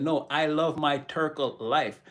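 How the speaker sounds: slow imitated Jamaican accent; lightly imitated Jamaican accent, unhurried. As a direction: quote him in a measured Jamaican lilt. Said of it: "in the Jamaican accent".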